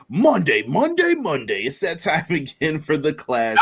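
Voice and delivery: lightly hyped announcer read; monster truck announcer. Acted. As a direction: sell it like a truck rally ad. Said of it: "Monster truck announcer voice".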